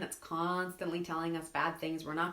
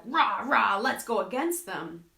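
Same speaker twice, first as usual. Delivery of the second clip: mock cheer; 5 dB louder, slower than usual. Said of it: "a hundred percent like".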